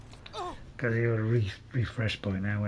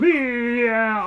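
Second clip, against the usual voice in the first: imitating a dazed yeah; 8 semitones higher, 6 dB louder than usual. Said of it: "he's standing there and he's going".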